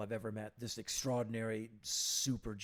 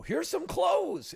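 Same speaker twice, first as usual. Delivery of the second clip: slow hearty call; 8 dB louder, much slower than usual. Retold or imitated. Mister Ginn handing out clothes.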